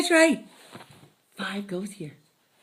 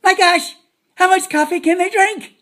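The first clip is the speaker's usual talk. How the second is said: exasperated exclaim; 5 semitones higher, 7 dB louder than usual. Retold or imitated. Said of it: "And you're like".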